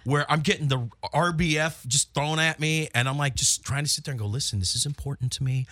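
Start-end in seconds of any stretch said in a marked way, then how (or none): 4.3-5.7 measured, softening plea; calm. Retold or imitated. Partner explaining what matters, calmly. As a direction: keep it low-key and controlled. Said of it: "I'm talking very calmly".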